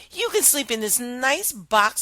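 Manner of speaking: princess voice. Acted.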